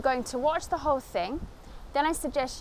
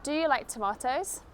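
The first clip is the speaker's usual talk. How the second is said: "Do you like tomatoes?" rising to the end; rising yes-no question; 3 semitones higher than usual. Shown as a demonstration. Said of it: "I go up at the end".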